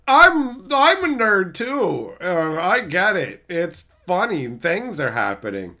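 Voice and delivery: mock a sitcom fan's excuses; lightly voiced dim fan. Mocking a fan.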